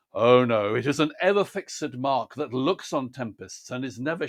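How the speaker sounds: measured recital, stressing the marked words; measured sonnet reading with marked stresses and enjambment; poem reading. Acted. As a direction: read the sonnet as marked, with weight.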